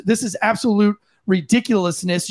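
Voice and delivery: ordinary talk, nothing marked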